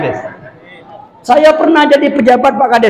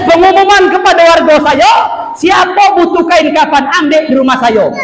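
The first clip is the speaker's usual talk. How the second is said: village head's announcement; 5 semitones higher than usual. Retold or imitated. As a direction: call it out to the whole village. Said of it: "Kata Pak Kades".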